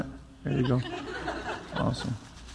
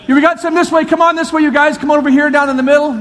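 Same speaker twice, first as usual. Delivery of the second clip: eager host calling people over; 5 semitones higher, faster than usual. Real, not acted. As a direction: wave the crowd over with your voice. Calling crowd to leftovers.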